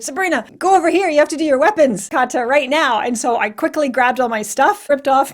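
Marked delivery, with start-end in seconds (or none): 0.0-3.0 hurried, higher call across the ring; urgent call. Retold or imitated. Friend calling Sabrina to her weapons division, hurried and urgent. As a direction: rush her to her next ring, fast. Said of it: "they called me and said".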